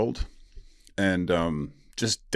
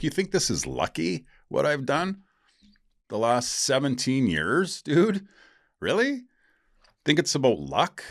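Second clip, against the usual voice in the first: incredulous outburst; 9 semitones higher than usual. Retold or imitated. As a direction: fire back at the friend, higher and higher with indignation. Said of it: "I'm like".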